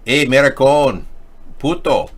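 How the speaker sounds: hollered taunt stretched out; mock call-out. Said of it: "They would often call me names like".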